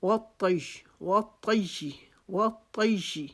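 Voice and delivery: وَالطَّيِّ with a heavy, full-mouthed طا. Shown as a demonstration. Teacher drilling وَالطَّيِّ with heavy ط. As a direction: say وَالطَّيِّ with a thick emphatic ط. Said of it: "تو آپ نے اس کو موٹا پڑھنا ہے".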